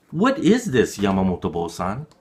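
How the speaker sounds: rising to a loud high "poison"; alarmed child. Acted. Child asking the priest if the liquid is poison, alarmed. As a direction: gasp out the suspicion.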